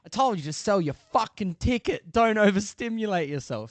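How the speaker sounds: high-pitched mock scolding of a son; retold telling-off. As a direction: imitate an exasperated dad laying into his kid. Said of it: "went off at him real hard".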